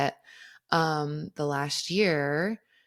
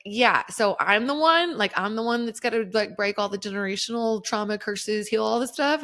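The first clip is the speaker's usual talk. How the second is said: mock resigned declaration; 6 semitones higher, 4 dB louder than usual. Talking with her dad's younger self.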